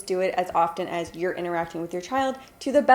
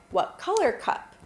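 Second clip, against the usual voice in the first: much higher, bright question; asking a toddler; 9 semitones higher than usual. Shown as a demonstration. Mom quizzing her toddler on colors, pitched up high. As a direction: lift the question way up for the child. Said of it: "And I'll say".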